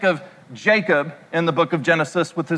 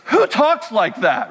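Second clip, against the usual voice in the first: laughing through the dad's scoff. Retold or imitated. Preacher laughing as he quotes his dad's scoff. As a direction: chuckle out the quoted line. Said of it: "And he would say".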